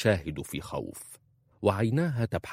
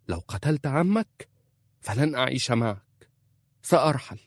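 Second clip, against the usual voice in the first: raised, higher pleading threat; wife's raised threat to her husband; 6 semitones higher, 3 dB louder than usual. A narrator's reading. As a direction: threaten to leave, voice lifted. Wife threatens to leave husband.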